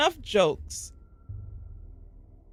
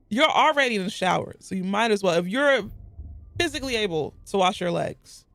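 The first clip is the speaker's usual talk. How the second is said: lecturing the crowd who skip their legs; exasperated rant. Real, not acted. Ranting at shower habits.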